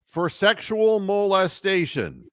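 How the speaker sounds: soulless dead-man stare into the camera; mock solemn replay ruling, very slow; deadpan referee announcement. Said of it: "give that soulless dead man look into the camera".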